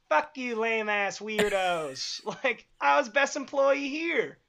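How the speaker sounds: slow, defiant, dragged-out brag; defiant slacker. Retold or imitated. Fired coworker slowly sneering at his old workplace. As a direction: stretch every word out with swagger.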